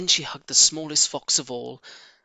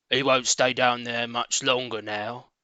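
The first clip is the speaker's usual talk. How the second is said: Boggis; 3 semitones lower than usual. Acted. Boggis voiced in story.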